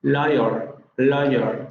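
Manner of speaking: liar with an r-coloured final vowel; rhotic ending. Shown as a demonstration. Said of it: "van a tener la vocal rótica al final". (liar con vocal rótica final)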